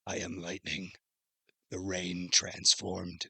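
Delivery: slow, soft robotic monotone. Retold or imitated. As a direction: deliver it like a cyborg through neck speakers. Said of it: "So it sounds like a robot-y".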